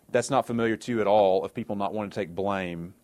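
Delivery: understated sarcasm. Real, not acted. Preacher teases listeners about dodging blame, sarcastic. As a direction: feign innocence, dryly. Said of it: "That's sarcasm".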